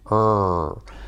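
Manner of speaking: a held er with the tongue curled back; American er. Shown as a demonstration. Teacher contrasting the English er with Spanish. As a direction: sustain a curled er. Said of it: "el sonido de esta letra es radicalmente distinto".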